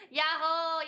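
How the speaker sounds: loud happy yahoo; excited cheer. Real, not acted. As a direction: whoop it out.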